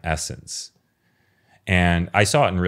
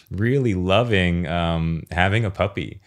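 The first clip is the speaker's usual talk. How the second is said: usual speaking voice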